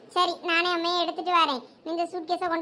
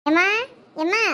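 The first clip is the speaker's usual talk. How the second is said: ordinary talk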